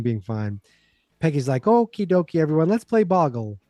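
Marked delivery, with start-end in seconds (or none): 1.6-3.6 higher, chirpy mock hostess; covering up cheerily. Peggy covering up before the party guests, cheerily. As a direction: chirp it to smooth things over. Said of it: "She just wants to cover up".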